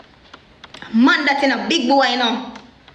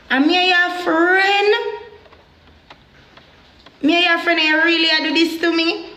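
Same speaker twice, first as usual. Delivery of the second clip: hurt plea; 4 semitones higher than usual. Retold or imitated. Confronting betraying friend.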